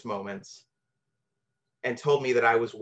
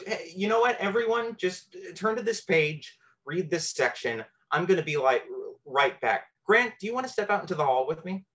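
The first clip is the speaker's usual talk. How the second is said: breezy, high teacher voice, faster at the end; cool and casual; 5 semitones higher than usual. Retold or imitated. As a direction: casually cover for him in front of the class. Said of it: "plays it very cool and casual".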